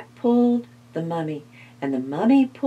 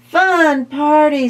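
cheerful mummy; 6 semitones higher, 5 dB louder than usual. Acted. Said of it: "says the mummy".

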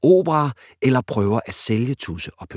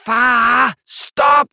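loud, high angry cry; 11 dB louder than usual. Acted. Daughter angrily stopping her embarrassing dad. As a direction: stop him, furious and embarrassed. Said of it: "siger Pølse vredt".

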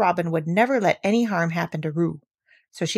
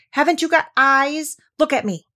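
high, loud indignant demand; small creature's exasperated shout; 8 semitones higher, 5 dB louder than usual. A narrator's reading. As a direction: cry out to be looked at. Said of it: "shouted Piglet".

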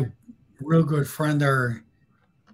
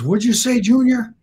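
louder and higher, a threatening comeback; a tough guy's raised-voice challenge to a punk kid; menacing challenge; 6 semitones higher, 5 dB louder than usual. Retold or imitated. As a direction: square up to the kid and demand he repeat it. Carl confronts the kid.

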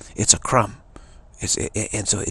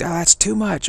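raised, louder mock objection; a higher-pitched mock "whoa, enough"; mock protest; 8 semitones higher, 4 dB louder than usual. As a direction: object as if overwhelmed. Mock complaint of overload.

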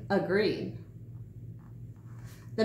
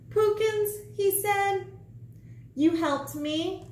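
1 gnome voice; 11 semitones higher than usual. A narrator's reading. Gnome addressing Pookins.

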